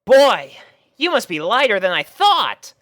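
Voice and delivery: high, loud surprised remark; surprised Rainbow. A narrator's reading. Rainbow surprised at the bag's weight, high and loud. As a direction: marvel at how light it is.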